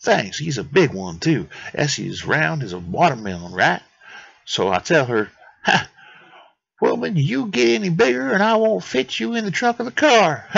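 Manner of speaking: put-on botched Italian accent, climbing high at the end; Anatoly. Anatoly joking about his wife, mock-Italian accent rising high. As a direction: tell it in a loose mock-Italian accent, building to a high punchline. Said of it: "that's gonna be the accent I give him".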